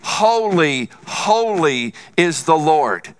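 slow, drawn-out holy cry; a hint of heavenly chant; angels crying out. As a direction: intone it like angels calling. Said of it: "they're crying out".

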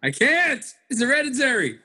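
high-pitched protest. Real, not acted. Man defending his hairline to teasing friends, high-pitched protest.

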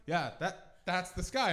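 flat, obvious reply; matter-of-fact answer. Retold or imitated. Answering a stranger in the park, flat and matter-of-fact. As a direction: state it like it's obvious. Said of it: "And you went".

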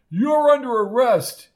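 loud, high-pitched yell; high outburst at full volume; shouted arrest. A narrator's reading. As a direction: shout it like a sudden accusation. Shouted arrest after the shove.

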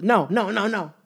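high, loud repeated no; insistent no. Retold or imitated. Date refusing a second soup, loud and insistent. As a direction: shut him down hard, again and again. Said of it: "She says no, like, six times".

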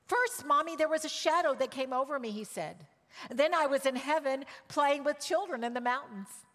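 put-on boy telling his mother about heaven, childlike voice; child's voice. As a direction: tell it like a five-year-old. Child Gabriel's words voiced.

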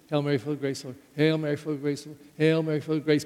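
recited on autopilot, evenly run together; rote mantra. Shown as a demonstration. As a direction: murmur it like a background mantra. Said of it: "we don't even concentrate. We just".

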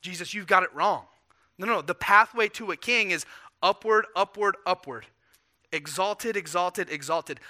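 rebuking. Retold or imitated. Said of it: "he rebukes Jesus".

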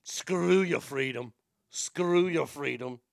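slow, drawn-out Austrian accent; Arnold Schwarzenegger. Shown as a demonstration. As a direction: try out a muscleman impression, slowly. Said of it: "gets you into the Arnold voice".

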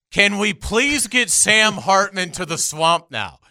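high, loud desperate plea; desperate pleading. Real, not acted. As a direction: beg like a heartbroken fan. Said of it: "your desperation to get Sam Hartman is glorious".

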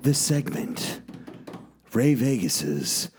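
big showman announcer intro; ringmaster. Acted.

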